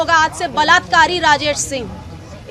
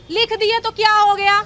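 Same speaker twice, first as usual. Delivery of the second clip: louder, higher mock of a dismissive wife; dismissive retold quote; 6 semitones higher, 4 dB louder than usual. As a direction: imitate her brushing it off, indignantly. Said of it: "उनकी बीवी भी कह रही हैं". (बीवी की लापरवाह बात की ऊँचे सुर में नकल)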